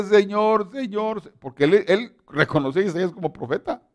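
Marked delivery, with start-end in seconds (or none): 0.0-1.3 a preacher acting out the king crying out. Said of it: "grite y grite".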